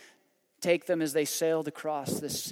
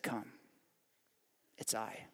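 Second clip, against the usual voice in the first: soft gentle call; 8 semitones lower, 15 dB quieter than usual. Acted. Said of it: "And Jesus said".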